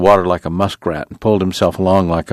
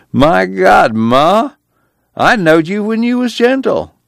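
laughing; 13 semitones higher, slower than usual. A narrator's reading. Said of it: "still laughing".

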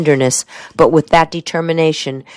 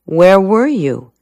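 slow, higher-pitched pointed question; near accusation; 4 semitones higher, slower than usual. A narrator's reading. Soldier presses Helen about her evening, near accusation. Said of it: "It was almost an accusation".

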